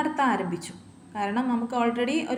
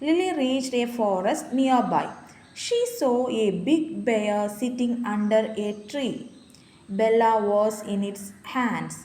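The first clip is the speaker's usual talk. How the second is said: put-on slow, deliberate reading to a child; slow story reading; much slower than usual. Shown as a demonstration. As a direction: read each word out slowly and clearly. Reads story text slowly. (പതുക്കെ കഥ വായിക്കുന്നു)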